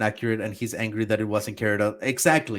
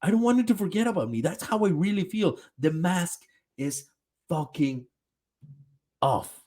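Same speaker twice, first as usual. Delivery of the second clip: higher, whiny imitation of crying; a hint of tearful confession, half mocking; 5 semitones higher than usual.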